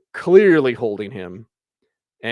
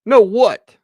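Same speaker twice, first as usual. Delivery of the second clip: mock indignant retort; 9 semitones higher, 10 dB louder than usual. Snapping back at the imagined answer.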